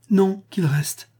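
high, slow, breathless pleading whisper. A narrator's reading. Empress begs her husband to let Gainas stay, whispered plea. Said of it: "fit Eudoxia d'un ton suppliant".

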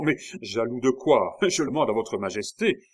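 protestation à voix forte; exclamation. A narrator's reading. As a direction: se récrier, piqué par l'accusation. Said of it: "s'écria Charny". (en s'écriant)

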